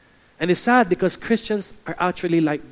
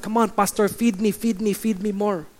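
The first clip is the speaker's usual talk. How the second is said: higher-pitched mock pleading; demanding churchgoer; 4 semitones higher than usual. Churchgoer wanting more from the pastor, mock-demanding. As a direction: beg the pastor like a greedy member. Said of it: "They have this mentality of".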